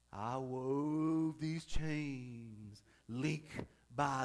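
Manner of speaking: slow, low hint of a ghost; ghostly voice. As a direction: drag it out like a moaning ghost. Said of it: "Trying to sound my ghostly voice".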